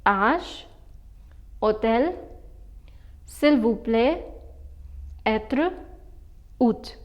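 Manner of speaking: Âge, hôtel, s'il vous plaît, être, hôte, each said singly in French; pronunciation demo. Shown as a demonstration. Teacher reading circumflex words to learners, careful French pronunciation. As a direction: model each French word with silent circumflex, pauses between. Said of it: "Let me pronounce all of these for you".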